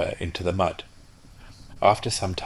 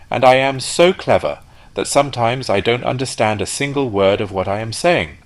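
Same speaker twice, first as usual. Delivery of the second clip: self-admiring rocket, rising louder as he boasts; vain rocket; 6 dB louder than usual. Acted. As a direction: relish your own cleverness. Rocket brags about himself.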